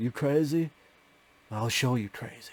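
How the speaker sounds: put-on Southern accent laid on very thick. Discussing an actor's accent and quoting his line: James Spader's southern accent. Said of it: "James Spader with his southern".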